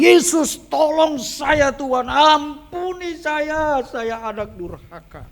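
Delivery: high, slow, drawn-out cry for mercy; wailing shout. Retold or imitated. Boy begs Jesus for help near the reporter, wailing shout. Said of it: "saya teriak lagi".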